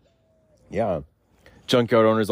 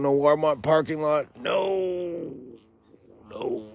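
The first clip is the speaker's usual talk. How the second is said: pitched-up nervous pleading; squeaky receptionist answering calls; high squeaky phone voice; 8 semitones higher, slower than usual. Pretend. Towing company phone call.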